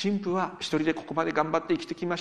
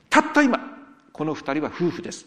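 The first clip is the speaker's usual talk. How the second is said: wedding proclamation; 7 dB louder than usual. Retold or imitated. Pastor proclaims the couple married.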